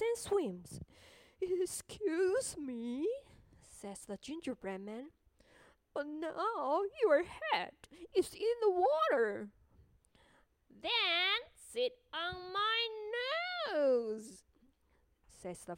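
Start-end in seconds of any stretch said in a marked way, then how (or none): 1.4-9.5 gingerbread man voice. Acted. 10.7-14.4 slow, sly, coaxing fox. Acted. Fox speaks.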